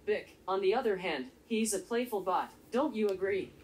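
flat, even robot delivery; robot monotone voice. Acted. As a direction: speak like a calm little robot. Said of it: "listening to my monotone voice".

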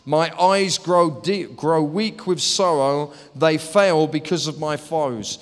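slow, weighty lament after loud opening cries; impassioned psalm reading. Acted. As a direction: read scripture as a heavy plea. Reads psalm aloud.

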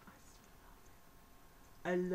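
slow, hushed mock-swooning whisper; whispered adoration. Owner doting on her planner, slow adoring whisper. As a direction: breathe it out slowly, besotted.

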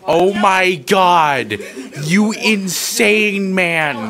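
amazed disbelief. Real, not acted. Friend about to eat deodorant.

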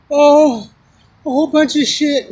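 high, loud retold outburst; imitating upset woman. Upset woman answers the man asking what's wrong, imitated distress. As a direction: retell her distress, pitched well up. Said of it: "She was crying up a storm".

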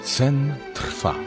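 usual speaking voice

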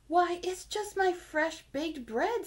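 a proud hen lingering over her fresh bread. A narrator's reading. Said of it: "said the little red hen".

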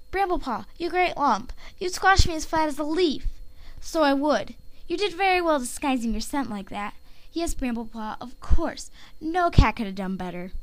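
lightly voiced she-cat character, lilting start; Leaf Dapple. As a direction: read the leader's line as another cat, lightly. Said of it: "Leaf Dapple accent".

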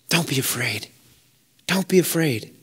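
soft, low, hushed comfort; gentle reassurance. Acted. God speaking to frightened listeners, hushed and gentle. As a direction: breathe it out like calming a child.

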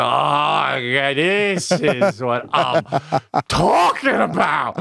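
slow, lazy pretend dog, savoring it; contented dog voice. Host voices a dog happy on a filthy porch, slow and lazy. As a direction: drag it out like a dog basking on the porch.

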